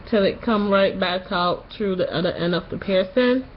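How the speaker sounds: sore-throat voice after tonsil surgery; post-surgery voice. Real, not acted. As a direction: talk like your tonsils just came out. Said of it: "you notice something about my voice".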